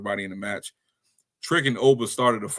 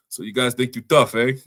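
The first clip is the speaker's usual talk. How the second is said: half-hearted mock Italian accent, a bit louder; 5 dB louder than usual. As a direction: try a hammy Italian accent and barely manage. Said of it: "I'm doing my Italian accent".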